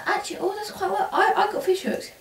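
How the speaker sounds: high, laughing through the words; giggling at the fish hooks. Real, not acted. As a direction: laugh while admitting it. Laughs at fish hook joke.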